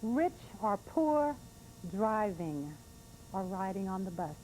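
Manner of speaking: slow, heartfelt poetry reading; emotional spoken-word poem; poem recital. Real, not acted. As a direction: read it as a tender tribute, holding back tears. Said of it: "a little bit of emotion in my voice".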